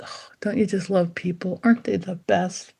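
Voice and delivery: breathy, hushed rapture; gushing people-lover. Acted. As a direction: sigh adoringly like a dog smitten with everyone. People-loving granddaughter dog gushing.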